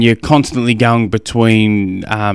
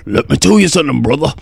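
light wrestler promo voice, a bit higher; a mild hammed-up eighties wrestler catchphrase; Hulk Hogan impression; 4 semitones higher, faster than usual. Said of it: "But Hulk Hogan".

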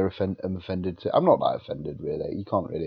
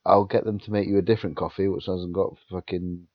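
flustered panic; 4 dB louder than usual. Retold or imitated. Flustered while bleeding, retold.

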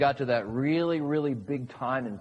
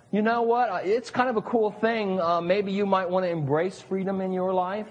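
mock suggestion; 3 semitones higher than usual. Preacher mocking a weak divine suggestion, casual and tentative. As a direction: toss it out as a take-it-or-leave-it hint. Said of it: "it doesn't say it was a suggestion like".

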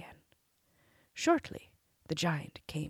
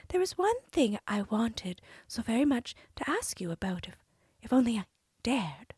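cartoon princess; 5 semitones higher than usual. Princess coaxing the giant.

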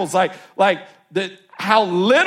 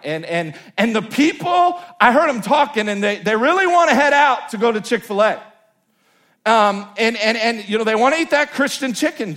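Peter talking to Jesus; 4 semitones higher than usual. Retold or imitated. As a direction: play Peter as a cocky disciple nagging his friend. Peter voiced pleading with Jesus.

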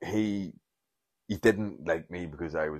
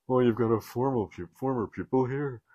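chirpy teacher; 6 semitones higher than usual. Retold or imitated. Teacher gushes to the bishop.

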